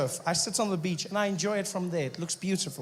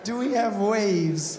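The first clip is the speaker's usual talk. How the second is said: slow, raised incredulous echo; exasperated disbelief; 3 semitones higher, 4 dB louder, much slower than usual. Retold or imitated. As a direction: draw it out in louder disbelief. Repeats the question again, more incredulous.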